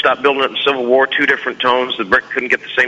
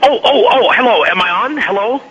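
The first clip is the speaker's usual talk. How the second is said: awkward greeting; 7 semitones higher than usual. Acted. Caller in put-on character voice.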